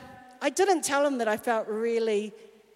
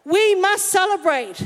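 insistent father; 3 semitones higher, 3 dB louder than usual. Retold or imitated. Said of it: "the dad ... is like".

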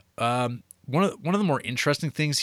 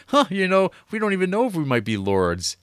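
high, louder wondering "huh"; surprised musing; 9 semitones higher, 4 dB louder than usual. Retold or imitated. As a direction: realize it out loud. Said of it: "and then they're like".

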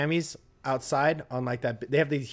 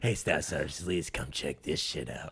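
drill instructor imitation; 9 semitones lower, 7 dB quieter than usual. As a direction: quietly summon a colleague in a low mock voice. Imitating a drill instructor calling a colleague.

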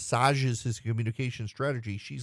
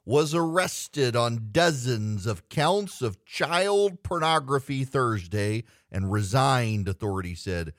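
booming game show host; 3 semitones higher, slower than usual. Acted. Reads the story in game voice.

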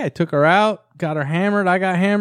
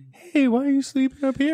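calm question; 10 semitones higher than usual. Retold or imitated. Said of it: "been like".

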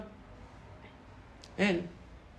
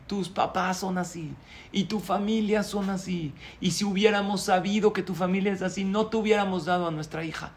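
mild mock rant; 4 semitones higher than usual. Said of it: "Su suegra se exaltó".

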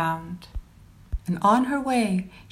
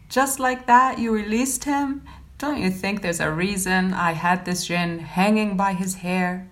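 mild scolding. Acted. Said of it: "she scolded her wife".

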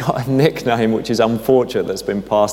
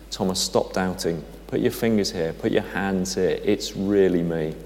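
softer, gently reassuring, slowing at the end; personal message; 2 semitones lower, 6 dB quieter than usual. Acted. Jesus speaking personally to doubting Thomas, softly reassuring. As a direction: quietly reassure one person. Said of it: "this personal message for Thomas".

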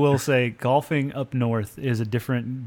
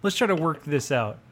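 high, pleading mock plea to come back; pleading host; 8 semitones higher than usual. Host begging an angry guest to return, high and pleading. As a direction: beg him to come back, pitched up. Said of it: "They're like".

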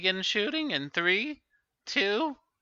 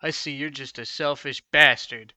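cold menace; 5 semitones lower than usual. Acted. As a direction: condemn him coldly. Cold threatening verdict.

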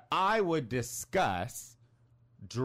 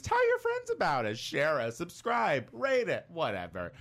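podcast host intro; 3 semitones higher than usual. Acted. Podcast host opens the show.

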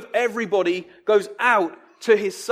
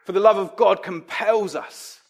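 usual speaking voice

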